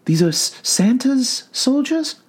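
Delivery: soothing clinical questioning; calm doctor voice. A narrator's reading. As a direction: gently probe a patient.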